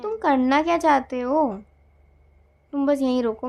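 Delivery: a flash of temper; irritated outburst. Acted. Partner snaps during a sulk.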